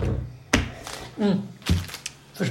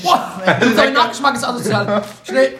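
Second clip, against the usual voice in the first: gasping from spicy heat; burning mouth; 4 semitones higher, 4 dB louder, slower than usual. Real, not acted. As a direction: mouth on fire. Reacting to hot pepper burn.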